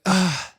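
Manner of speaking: mock exasperated "ugh"; exasperated groan. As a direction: groan like an overwhelmed student. Class's exasperation acted out.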